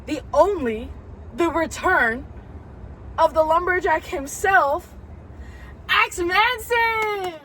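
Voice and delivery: building announcer intro, high stretched name at the end; dramatic pauses rising to a drawn-out reveal; ring announcer. Pretend. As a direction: announce the big return, drawing out the final name. Hyped announcement of a wrestler's return.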